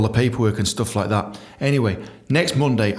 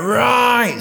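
gruff landlord call; 11 semitones higher, 4 dB louder than usual. Retold or imitated. Jack returns from the bar.

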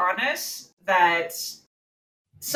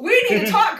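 put-on African American accent; 8 semitones higher, 4 dB louder than usual. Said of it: "I'm code switching here".

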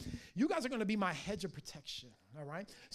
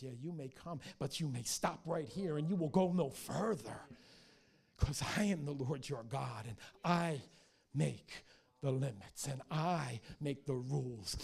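lower, measured command; firm authority; 3 semitones lower than usual. Retold or imitated. God setting limits on the enemy, firmly commanding. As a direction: lay down the law, weighting each clause.

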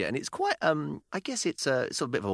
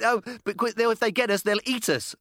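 put-on scared child; 9 semitones higher than usual. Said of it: "And she said".

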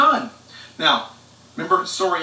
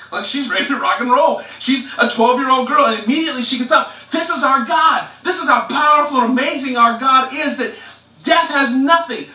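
louder, higher preaching build; preaching at full force; 5 semitones higher, 4 dB louder than usual. Acted. Pastor to the congregation on God's power, fervent preaching. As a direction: preach it out with fervor.

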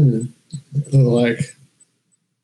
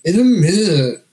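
slow, higher sarcastic robot; sarcastic robot monotone; 7 semitones higher than usual. Pretend. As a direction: drag it out, stalling robot. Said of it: "a really sarcastic robot".

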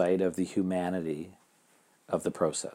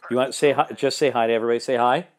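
cheerful coaxing; 4 semitones higher, 3 dB louder, faster than usual. Real, not acted. Coaxing caller to greet audience.

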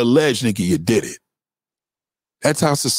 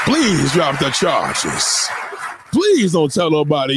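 mock begging; slower than usual. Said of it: "asked that fucking transsexual the same".

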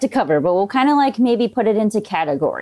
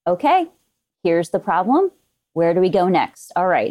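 calm in crisis. Retold or imitated. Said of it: "it's very much cool calm".

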